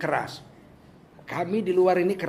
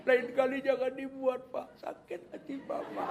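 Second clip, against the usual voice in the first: wife's gentle whisper; 6 semitones higher, 6 dB quieter than usual. Retold or imitated. Wife gently scolding husband after apology.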